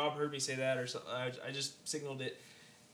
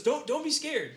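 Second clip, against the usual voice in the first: mock creepy stranger; 10 semitones higher, 5 dB louder than usual. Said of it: "and he goes".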